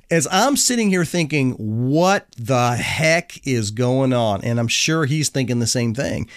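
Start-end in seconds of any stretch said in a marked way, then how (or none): 1.5-4.4 baffled. Retold or imitated. Confused thought in the car wash.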